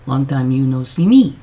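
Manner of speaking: ordinary talk, nothing marked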